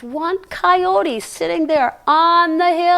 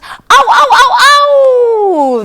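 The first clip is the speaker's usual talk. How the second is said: coyote yips; 11 semitones higher, 10 dB louder, slower than usual. Shown as a demonstration. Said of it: "Come on, let's practice".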